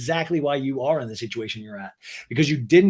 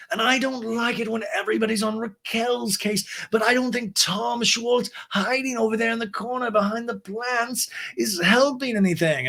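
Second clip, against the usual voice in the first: Lisa; 8 semitones higher than usual. Retold or imitated. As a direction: draw it out in an exaggerated high pitch. Recapper voices Lisa.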